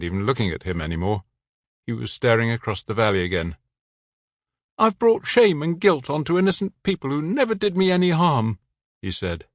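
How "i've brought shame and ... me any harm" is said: he feels a burden; man with local French accent, despairing. A narrator's reading. The man, guilty.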